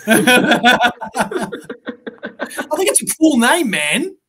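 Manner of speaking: laughing while talking; words through a laugh. Real, not acted. Defends naming son Goku.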